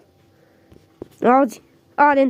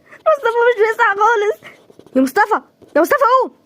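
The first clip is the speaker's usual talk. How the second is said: crying; 5 semitones higher than usual. Acted. Mother fears son won't wake.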